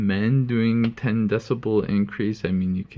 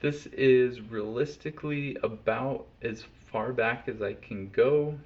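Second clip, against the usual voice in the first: very distant, much softer; far off; 8 dB quieter than usual. Shown as a demonstration. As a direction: speak from the far end of the room. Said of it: "fifteen feet from the mic".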